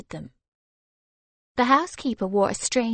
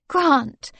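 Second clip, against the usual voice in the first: embarrassed plea, a bit louder and higher; pleading; 5 semitones higher, 6 dB louder than usual. Acted. Blushing wife pleads with her teasing husband. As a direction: beg him to stop. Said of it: "she pleaded".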